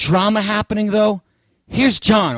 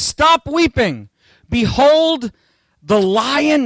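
the elder speaking; 7 semitones higher, much slower than usual. Retold or imitated. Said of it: "and he says".

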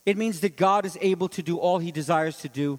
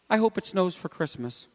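wishful tone. Shown as a demonstration. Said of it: "Hope is not a wish".

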